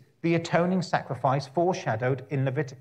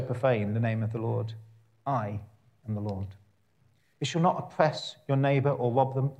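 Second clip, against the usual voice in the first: measured, solemn Bible reading with weighty pauses; scripture reading. Acted. Preacher reading Leviticus to the congregation, measured and solemn. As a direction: read the Law as holy words.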